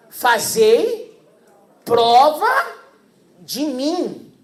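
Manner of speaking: loud, high proclamation; loud scripture declaration; proclaiming scripture. Acted. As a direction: declare it as God's own words. Quoting God's word.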